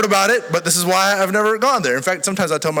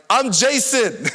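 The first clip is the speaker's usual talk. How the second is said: higher, loud confused shout of his name; yelled back; 7 semitones higher, 3 dB louder, slower than usual. Retold or imitated. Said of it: "I just yelled back".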